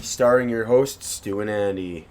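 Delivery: slow mock announcer intro; slow hammed-up announcer voice. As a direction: announce the hosts grandly, slowly. Announcer-style host intro.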